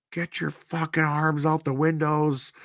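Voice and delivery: high mock yell of a cop barking orders; shouting cop at a car window, pitched high; cops screaming. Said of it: "they all start screaming".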